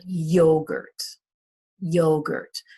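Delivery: yogurt with a strong YO, falling away; stress on first syllable. Shown as a demonstration. Teacher models yogurt, stressing the first syllable. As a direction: hit YO in yogurt. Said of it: "is on the first syllable".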